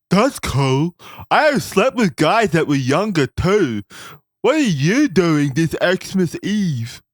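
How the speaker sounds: high, slow, dopey nerd voice; a goofy high nerd reading creepy lines; fat nerd voice. Acted. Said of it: "your fat nerd voice with the lazy eye".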